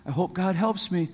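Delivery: softly mock a half-hearted wish; quick little throwaway mumble of hope, imitated; understated, passive wishing; passive, idle hoping. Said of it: "that isn't just standing there going".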